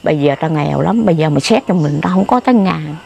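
low, measured retelling of calm talk. Retold or imitated. Woman calmly telling an addict she is broke, calm. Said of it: "tôi nói chuyện bình tĩnh".

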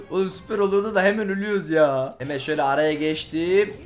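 usual speaking voice

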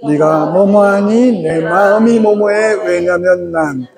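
slow, even, gently voiced template line; calm model phrasing. Shown as a demonstration. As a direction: say it slowly as a calm model for parents. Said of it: "시작".

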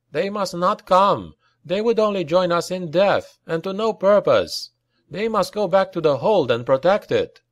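insistent officer's voice; urgent commanding. A narrator's reading. Leader forbids reinforcements in battle.

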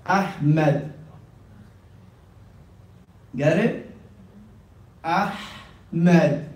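Ahmed with a deep throat h; throaty Ahmed. Shown as a demonstration. Teacher modelling Ahmed for the class. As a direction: breathe the h of Ahmed hard. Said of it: "from the deep of the throat".

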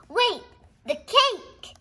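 high, loud startled cry; sudden surprise. Real, not acted. Kid suddenly spotting the cake in the book. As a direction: blurt it out as it dawns.

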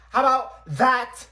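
loud high retort; sassy yell. Acted. Girl ending the argument with a loud sassy retort. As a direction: fling the catchphrase.

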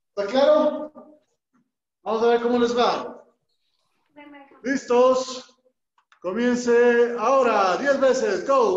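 coach calls. Real, not acted. Instructor starting second drill.

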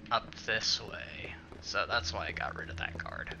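hushed stealth whisper. Real, not acted. Gamer sneaking past a guard, whispering. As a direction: whisper so the guards won't hear.

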